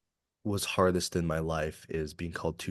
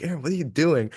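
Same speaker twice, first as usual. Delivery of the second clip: higher, louder disbelieving question, retold; alarmed bystander; 10 semitones higher, 8 dB louder than usual. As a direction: imitate an alarmed onlooker calling out. Bystanders alarmed as he hugs drunk man.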